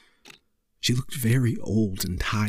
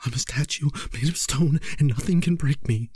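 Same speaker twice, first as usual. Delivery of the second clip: tense, higher desperate self-talk; cling to it desperately; 5 semitones higher than usual. Acted. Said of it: "he thought, desperately".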